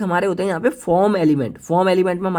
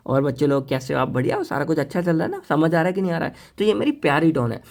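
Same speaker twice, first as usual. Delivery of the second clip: loving tone. Shown as a demonstration. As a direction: sweet-talk the students kindly. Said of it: "वही मैं प्यार से बोलूँ".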